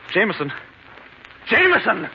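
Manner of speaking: calling for the butler. Acted. Ambrose calls servant in panic.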